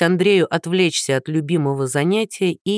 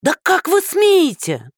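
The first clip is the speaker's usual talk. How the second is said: much higher, slow outraged cry; outraged old woman; 12 semitones higher, 3 dB louder, slower than usual. Acted. Old woman outraged at Andrey, high and slow. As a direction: stretch each word in outrage.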